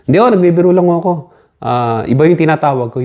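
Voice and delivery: sheepish excuse. Retold or imitated. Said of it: "kakamot-kamot na".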